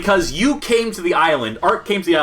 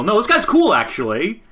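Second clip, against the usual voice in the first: mock fan voice; 9 semitones higher than usual. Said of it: "That's how you convince people".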